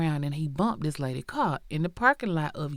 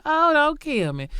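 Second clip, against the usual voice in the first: imitating a panicked plea, high and loud; mock hollering; 9 semitones higher, 6 dB louder than usual. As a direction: play the terrified victim, pitched up. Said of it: "She just hollering".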